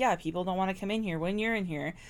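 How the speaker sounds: put-on calm. Retelling a man's reply to a woman at a restaurant, imitating someone speaking calmly. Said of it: "Tony says this so calmly".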